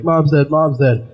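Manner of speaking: mock hysteric, a bit slow and high; retelling panic without real tears; lightly acted hysteria; mild retold panic. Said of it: "I was hysteric".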